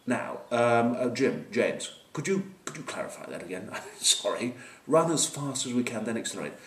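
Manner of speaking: put-on polite, hesitant English accent; hesitant English player. English player asking coach to clarify, hesitant English accent. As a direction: query it haltingly in a proper English accent. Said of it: "the English, of course, were going".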